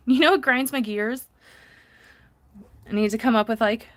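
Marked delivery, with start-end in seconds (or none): 0.1-1.3 Peter Griffin voice. Retold or imitated. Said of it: "my best Peter Griffin voice".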